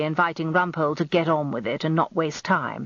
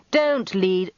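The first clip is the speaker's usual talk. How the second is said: brief growled rebuke, mildly forceful; a touch of a growl; 4 semitones higher than usual. A narrator's reading. Defence counsel objects to leading the witness, growled. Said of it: "as Rumpole growled".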